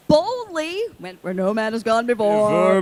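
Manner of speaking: drawn-out, heroic proclamation; slow, swelling Star Trek intro parody; mock-grand declamation. Telling fans how she approached him, mock-grand.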